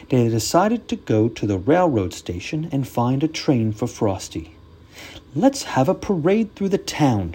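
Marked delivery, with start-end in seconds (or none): 5.4-7.3 shouting snowman. Acted. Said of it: "shouted Frosty".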